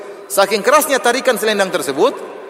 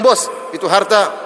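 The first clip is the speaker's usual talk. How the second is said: mock rude demand. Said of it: "kalau kita bilang".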